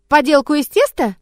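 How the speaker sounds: amazed, lifted voice; astonished. A narrator's reading. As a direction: exclaim it as if you can't believe it. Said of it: "изумлённо воскликнула".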